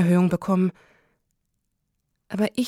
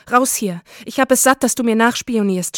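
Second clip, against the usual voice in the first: understated shout, somewhat raised and forceful; angry shout; 5 dB louder than usual. Acted. Son fed up with mother's spying, restrained angry shout. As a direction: read the outburst with contained anger. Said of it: "schrie er".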